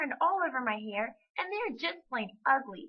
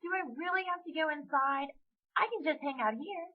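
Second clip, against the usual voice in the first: put-on higher-pitched reluctant child; pitiful pleading; 7 semitones higher than usual. A narrator's reading. Amy begging her mother to stay outside, pitiful. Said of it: "With pitiful, droopy eyes".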